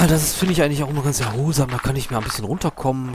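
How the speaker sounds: rushed, hyped-up chatter; talking fast, too wired; wound up. Real, not acted. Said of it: "Ich bin total aufgedreht".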